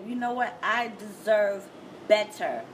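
slow, emphatic declaration of self-worth; measured, resolute delivery; deliberate self-assertion. Acted. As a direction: take your time and land it with weight. Voicing standing up for oneself.

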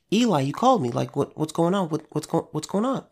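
a hint of a confused boy asking what's happening; puzzled young Samuel. Samuel coming back to Eli again, mildly puzzled. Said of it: "he's like".

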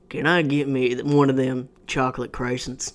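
hick Southern customer, no French; Southern accent. Acted. Customer ordering without the French, mock Southern accent. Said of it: "If he didn't say it in a French accent".

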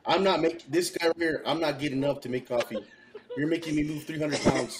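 laughing through the big guy's lines; laughing mock refusal. Mocking the heavy coworker who won't get up, laughing. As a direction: giggle while voicing him. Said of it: "That guy right there would be like".

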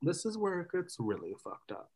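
hushed, spooky aside; whisper. Real, not acted. Host teases the creepy twist to co-host, whispering. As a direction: drop to a whisper like a secret.

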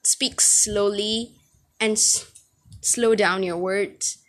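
slow, whispered imitation of grandma; slow whispered grandma advice; grandmother's advice. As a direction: hush it slowly like a grandmother's gentle correction. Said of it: "even my grandmother says this".

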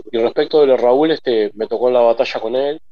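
talking between sips of mate; drinking mate. Real, not acted. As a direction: speak while sipping mate. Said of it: "perdón que estoy tomando mate".

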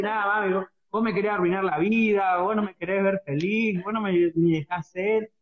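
lightly voiced sulky teenager talking back to mom; a hint of a sulky teen protesting; mock teen whining. Hija adolescente le contesta a mamá. (adolescente quejosa imitada a medias)

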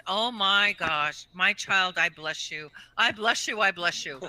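loud, drawn-out mock blessing from a nun. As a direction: bless her over and over like a fervent nun.

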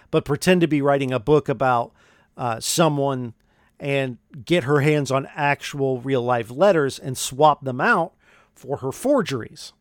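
ordinary talk

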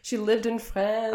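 insisting in mock exasperation; insistent. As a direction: plead her case to doubters. Retold argument convincing French in-laws.

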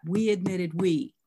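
"we" stressed both times, slowly; deliberate emphasis on the word "we". Shown as a demonstration. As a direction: lean on each "we" in the phrase. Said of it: "The first and the third word".

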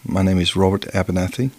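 mild put-on English accent. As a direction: introduce yourself in a modest imitation English accent. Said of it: "in your best English accent".

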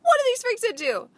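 playful gruff cop impression that breaks high at the end; Ice-T. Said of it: "Ice-T's all walking up in there like".

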